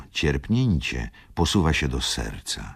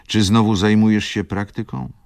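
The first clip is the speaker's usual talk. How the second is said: livelier, higher and louder question; Wokulski; 7 semitones higher, 6 dB louder than usual. A narrator's reading. Wokulski asks Schumann about practice, raised inquiring voice. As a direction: ask it raised and loud.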